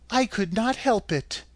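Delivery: put-on little girl voice. A narrator's reading. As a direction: plead up high like a small girl. Dorothy answers simply.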